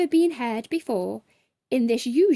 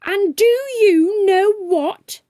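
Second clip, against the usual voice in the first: loud, high, slow challenge; angry shout; 9 semitones higher, 8 dB louder than usual. A narrator's reading. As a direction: throw the question at him. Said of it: "she shouted".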